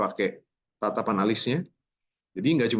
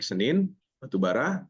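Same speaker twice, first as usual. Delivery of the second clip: short rising phrase ends; rising tune; 3 semitones higher than usual. Shown as a demonstration. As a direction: pitch lifts at the end of "Senin" and "bara". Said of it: "Setiap ada garis miring, nadanya naik".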